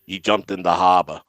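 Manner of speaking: low, deadpan executive impression; Lou Lamoriello. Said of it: "he does the best Lou Lamoriello impression".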